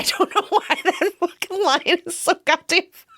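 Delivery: high, squeaky-pitched real laughter under the words; laughing. Real, not acted. Fan baffled by how funny the acne line is, laughing. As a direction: lose it while getting the sentence out.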